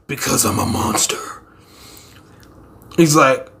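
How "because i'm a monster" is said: menacing whisper. Acted. Menacing monster line, unvoiced.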